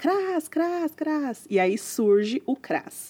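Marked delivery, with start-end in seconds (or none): 0.0-1.5 high yelled calls, over and over. Retelling a character calling for the arena fighter: imitating someone shouting. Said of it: "ele começa a gritar".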